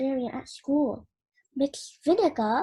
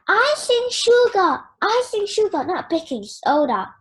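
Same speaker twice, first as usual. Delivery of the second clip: exclaiming; 4 semitones higher, 4 dB louder than usual. Acted. Mom exclaims, laughing hidden.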